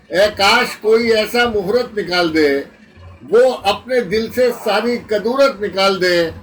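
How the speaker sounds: declaimed verse with pauses between phrases; ghazal recitation. Acted. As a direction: present each phrase to the mushaira audience.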